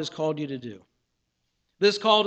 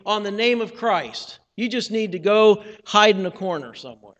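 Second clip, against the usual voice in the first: Satan accusing; 5 dB louder than usual. Acted. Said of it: "he says".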